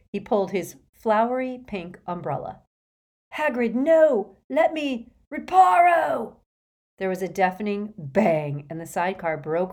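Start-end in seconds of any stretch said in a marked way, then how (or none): 3.3-6.4 high, loud urgent cry; urgent shout. Acted. Harry stopping Hagrid from casting, loud urgent shout. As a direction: shout the spell out fast and sharp.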